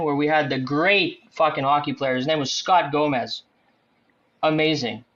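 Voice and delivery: deadpan mock praise; very sarcastic. Real, not acted. Fan recalling an overpaid player's signing, very sarcastic. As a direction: heap on praise you don't mean, in a low-key way. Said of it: "I'm being very sarcastic".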